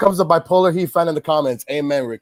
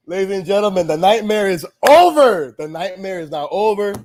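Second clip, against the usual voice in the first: mock announcer; 5 semitones higher than usual. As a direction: proclaim it like an announcer, pitched up. Announces the awful game's end.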